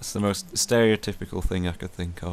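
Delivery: ordinary talk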